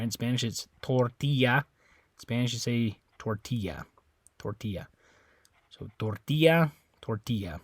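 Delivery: "tortilla" with a rounder Spanish O. Shown as a demonstration. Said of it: "the way you pronounce it is a little bit different".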